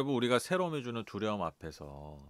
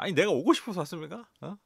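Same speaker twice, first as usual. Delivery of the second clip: louder, higher mock protest; arguing with God; 7 semitones higher, 7 dB louder than usual. Preacher retelling arguing with God in prayer, mock indignant. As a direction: demand an answer from God. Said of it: "따지듯이 기도했어요".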